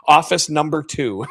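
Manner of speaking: chuckling through the punchline; laughing repeat. Real, not acted. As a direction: repeat it while laughing at yourself.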